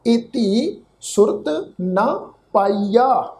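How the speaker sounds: ਪਾਈਆ with no nasal sound, said slowly; ਪਾਈਆ not ਪਾਈਆਂ, open ending; correct pronunciation. Shown as a demonstration. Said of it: "ਇਹਦਾ ਇਸ ਢੰਗ ਦੇ ਨਾਲ ਉਚਾਰਨ ਕਰਾਂਗੇ". (ਪਾਈਆ ਬਿਨਾਂ ਬਿੰਦੀ ਦੇ, ਹੌਲੀ)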